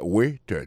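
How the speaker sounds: "waiter" with the weight on "wai"; first-syllable stress. Shown as a demonstration. Teacher shows where the accent falls in "waiter", first-syllable stress. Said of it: "accent tombé sur le premier syllabe là".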